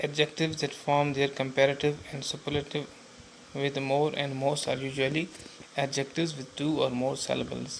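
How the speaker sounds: very slow, deliberate textbook reading; teacher reading from the book; reading the rule aloud. Shown as a demonstration. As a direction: spell the rule out word by word for the class.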